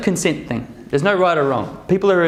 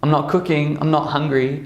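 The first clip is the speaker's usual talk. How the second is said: grumpy sick partner. Retold or imitated. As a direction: drag it out like a sulking partner. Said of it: "And they're like".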